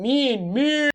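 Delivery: escalating who?; rising who. Real, not acted. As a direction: demand it with mounting disbelief. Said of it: "مين ما يعرفش وقت المغامرة".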